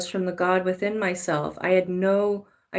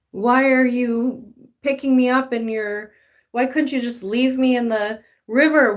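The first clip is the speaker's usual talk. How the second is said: pleading gold nugget; 3 semitones higher, 4 dB louder than usual. Acted. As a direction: whine up at God like a tossed nugget.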